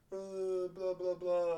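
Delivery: mock chatter in drawn-out blahs; talking over somebody. Pupil demonstrating talking over somebody, silly babble. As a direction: babble on as if over another speaker. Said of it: "they're talking over somebody".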